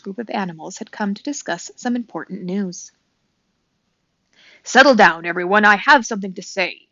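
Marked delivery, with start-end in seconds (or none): 4.6-6.9 loud hooting call to settle a crowd; owl calling the crowd. A narrator's reading. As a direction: owl hushing the meadow, loud. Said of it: "Swooper the owl hooted to the crowd".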